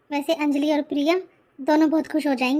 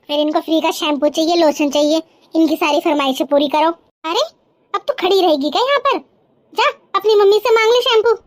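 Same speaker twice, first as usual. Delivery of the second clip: 1 scolding aunt; 5 dB louder than usual. Acted. Aunt scolds niece over shampoo.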